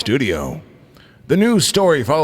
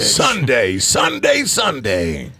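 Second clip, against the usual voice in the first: monster truck ad; 2 semitones lower, much slower than usual. Pretend.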